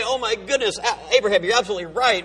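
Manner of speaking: gushing, pretend confession; imagined repentant man. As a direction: act out an over-the-top apology. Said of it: "He doesn't say".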